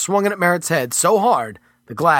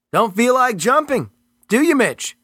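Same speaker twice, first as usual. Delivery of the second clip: higher, firm and condescending; agent's character voice; 9 semitones higher than usual. Acted. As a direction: talk down to him coolly. Agent Merritt taunting.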